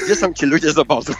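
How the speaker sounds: laughing through the question; words broken up by real laughter. Real, not acted. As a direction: crack up as you ask. Laughing at his own story's punchline.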